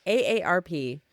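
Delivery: slight braces lisp. Real, not acted. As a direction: lisp a little through braces. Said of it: "we're lisping left and right over here".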